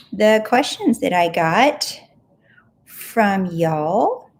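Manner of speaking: Southern cowboy drawl; cowboy accent. Real, not acted. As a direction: drawl it like a cowgirl. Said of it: "I sound like a cowboy, cowgirl".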